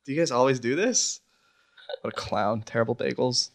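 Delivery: catching breath after laughter; breathless, words squeezed out between laughs; after laughing hard. Real, not acted. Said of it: "Let me compose myself".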